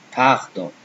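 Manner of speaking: "Pardon" with open "ah", throaty R; "Pardon" with nasal French ending. Shown as a demonstration. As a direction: model French "Pardon", pahr-DON. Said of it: "So A, pardon".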